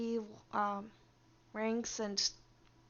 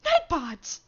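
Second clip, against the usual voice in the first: loud, higher wail of the name; outraged yell; 4 semitones higher, 11 dB louder than usual. Real, not acted. Streamer wailing at the chat bot in mock outrage. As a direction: cry out the name in protest. Bot keeps timing him out.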